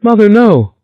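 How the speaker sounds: very high, loud crying cry; high anguished sob of a plea; weeping wail. A narrator's reading. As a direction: wail it out in despair. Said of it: "The tall, thin girl wept".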